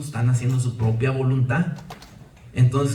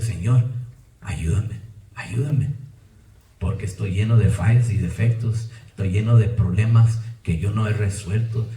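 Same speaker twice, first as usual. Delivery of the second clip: humble pleading prayer; 3 semitones lower than usual. Retold or imitated. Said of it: "yo digo".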